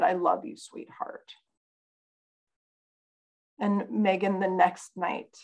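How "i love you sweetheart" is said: soft, fading tender words. Retold or imitated. Mother retelling her gentle words to daughter. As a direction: hush it lovingly. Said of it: "and I said".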